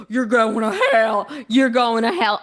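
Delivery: mocking a zealot. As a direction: sneer at the commenter by parroting their damnation. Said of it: "how you'll come for us being like".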